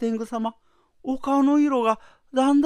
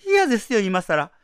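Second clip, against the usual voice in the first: angry refusal; 5 dB louder than usual. Acted. Wife refuses in fury.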